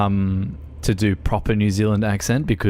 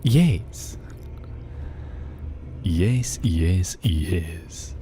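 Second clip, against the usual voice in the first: whispering; 4 semitones lower, 4 dB quieter, much slower than usual. Acted. Mic test whispering.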